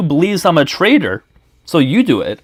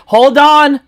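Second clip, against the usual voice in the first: sharp interruption; 10 semitones higher, 5 dB louder than usual. Real, not acted. Cutting in during argument.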